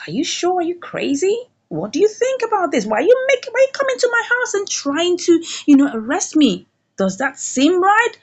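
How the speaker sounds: indignant questions, pitch climbing; acted indignant protest. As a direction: play an affronted suspect challenging the police. Suspect protests his arrest.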